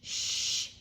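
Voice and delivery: "Shh" as a long hushing hiss; sh sound. Shown as a demonstration. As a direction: hush like quieting a room, no voice. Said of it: "A sh".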